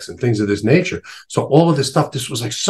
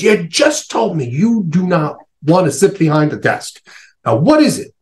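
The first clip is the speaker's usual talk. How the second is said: higher, impatient challenge; exasperated nun; 8 semitones higher than usual. Retold or imitated. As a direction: call out his contradiction, fed up.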